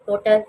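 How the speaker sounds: टोटल with a long, loud ओ; long vowel. Shown as a demonstration. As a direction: stretch the ओ in टोटल. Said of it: "long vowel sounds बनाने हैं". (टोटल में ओ लंबा)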